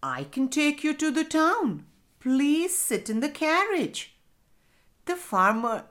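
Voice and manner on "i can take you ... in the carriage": high, courteous coachman voice; lightly acted gracious invitation; polite. A narrator's reading. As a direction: offer the ride politely, pitched up. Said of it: "The coachman said politely".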